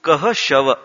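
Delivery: "कह", a small break, then "शव"; word split apart. Shown as a demonstration. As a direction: separate "कह" from "शव" as two words. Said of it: "केशव का विच्छेद करें". ("कह" और "शव" को अलग-अलग बोलना)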